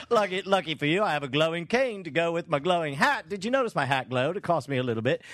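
lightly hammed British workman; a bit of bad British accent; put-on British tradesman patter; fake British accent. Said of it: "my terrible fake accent".

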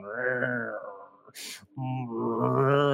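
low imitated cat growl. Imitating the angry cat, low mock growl. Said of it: "the cat's going".

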